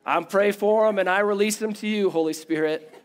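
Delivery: put-on a light Southern accent on a churchy prayer; Southern twang. Pastor mocking pious church talk, light Southern twang. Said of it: "a little bit of a Southern twang on that last one".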